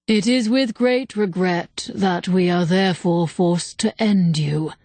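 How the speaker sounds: slow and grave; solemn spirit voice. Acted. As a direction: speak like an ancient being, unhurried. Ancient spirit passes judgment.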